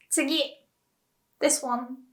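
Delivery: ordinary delivery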